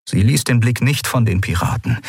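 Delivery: ordinary delivery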